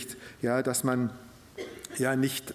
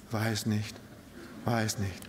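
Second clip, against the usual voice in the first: sheepish mumble; 8 semitones lower, 9 dB quieter than usual. Retold or imitated. Churchgoer can't recall the sermon.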